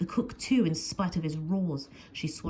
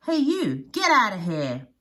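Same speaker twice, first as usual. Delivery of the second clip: put-on loud, higher boy's yell; shout; 4 semitones higher, 8 dB louder than usual. A narrator's reading. Little boy shouting at Nessie, loud. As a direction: shout to chase her off. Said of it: "he shouts".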